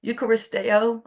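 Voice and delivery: Eucharisteo in a Spanish accent, yoo-ka-ris-TEH-oh. Shown as a demonstration. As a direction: Eucharisteo with Spanish vowels, each syllable full. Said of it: "I'm saying it in my Spanish, um, accent".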